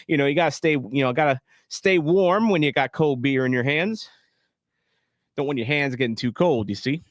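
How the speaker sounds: redneck voice. Acted. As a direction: lay on a thick redneck twang. Streamer holds redneck commentator voice.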